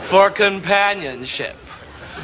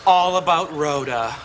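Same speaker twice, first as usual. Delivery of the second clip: excited shout; 3 semitones higher than usual. Acted. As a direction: shout it out, delighted to be stranded. Thrilled to be stranded.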